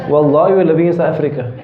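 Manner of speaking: quick, laughing through a silly example; tossing off an absurd oath with a chuckle; laughing mock oath. Teacher to class, a mock oath said laughing and fast.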